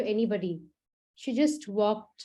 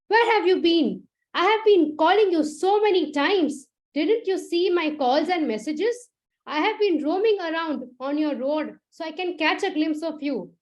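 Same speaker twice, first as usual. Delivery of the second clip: furious; 5 semitones higher than usual. Acted. Manav berating Meera for not answering, angry and raised. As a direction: scold her for ignoring every call. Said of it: "Manav was furious".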